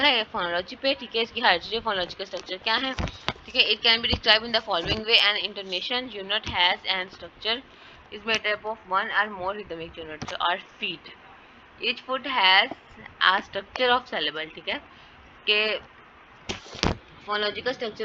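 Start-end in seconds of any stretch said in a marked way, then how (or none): 3.8-14.5 slow, deliberate reading of English text; textbook read-aloud. Real, not acted. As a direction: read it out word by word, slowly. (کتاب سے ٹھہر ٹھہر کر پڑھنا)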